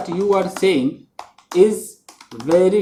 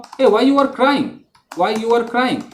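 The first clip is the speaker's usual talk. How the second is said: slow wrong version; 4 semitones higher, much slower than usual. Shown as a demonstration. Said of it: "तो ये महागलत है".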